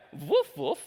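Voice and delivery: high double woof; Danish dog bark. Shown as a demonstration. Speaker showing how Danish dogs sound, high woofing.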